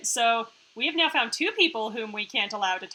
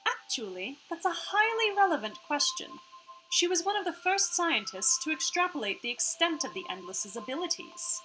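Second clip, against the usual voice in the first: higher, lightly Australian-tinged AI voice; half-Australian AI accent; 6 semitones higher than usual. Acted. AI hologram answers the crew's question, lightly Australian-accented. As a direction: voice the hologram AI with a slight Australian lilt. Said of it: "sorry about her accent right now".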